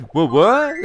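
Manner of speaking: high, loud, squeaky repeat; high squeaky what. Retold or imitated. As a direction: squeak it out like a cartoon critter. Mimics again.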